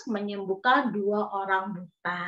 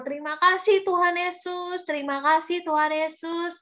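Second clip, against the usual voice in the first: acted storybook thankfulness, pitched up; grateful rejoicing; 6 semitones higher than usual. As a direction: voice the healed men's joy for children. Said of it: "mereka bersyukur".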